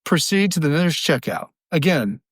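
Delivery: store closing announcement. Retold or imitated. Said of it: "employees getting on the microphone saying".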